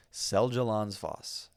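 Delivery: Seljalandsfoss said slowly with an American accent; butchered Icelandic pronunciation. Real, not acted. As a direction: sound out Seljalandsfoss slowly and loudly, American-style. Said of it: "I butchered that so badly".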